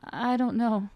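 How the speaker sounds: trembling. Acted. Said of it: "she said, trembling".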